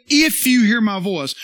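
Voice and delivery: "If" hit hard and loud; stress on If. Shown as a demonstration. Preacher showing what scripture didn't say, stress on "If". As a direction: lean on "If" as the rejected word. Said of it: "He didn't say".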